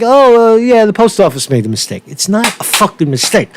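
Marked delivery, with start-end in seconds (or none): 0.0-2.0 higher, mock-agreeable voice that speeds up; mock gullible reader. Host mocks how readers accept the story, higher and faster. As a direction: play a lightly voiced dupe swallowing the excuse. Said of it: "it sounds like".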